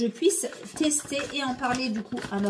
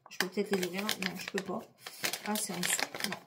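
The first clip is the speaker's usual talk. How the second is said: softer, effortful while tugging a wrapper; struggling to open packaging; 3 semitones lower, 7 dB quieter, much faster than usual. Real, not acted. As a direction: strain a little as you fight the packet open. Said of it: "j'arrive pas à l'ouvrir".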